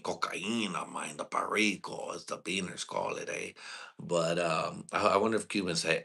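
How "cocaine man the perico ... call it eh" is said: fluisterend, samenzweerderig: "Cocaine, man"; mock whisper about cocaine; whispered aside.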